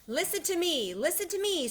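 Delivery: very high, urgent goose cry; goose screaming. A narrator's reading. Goose pleading for Wilbur's attention, high cry. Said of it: "screamed the goose".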